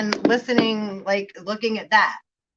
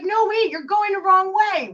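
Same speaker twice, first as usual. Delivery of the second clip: high, pushed-up voice, a bit louder; mock Rose; 10 semitones higher, 3 dB louder than usual. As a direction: play Rose, impatient and squeaky. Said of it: "And she's like".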